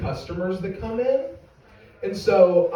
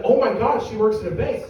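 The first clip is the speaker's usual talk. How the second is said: mock awe; 4 semitones higher than usual. Staff imagined admiring wife's bank job, mock awe. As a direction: gush as if hugely impressed.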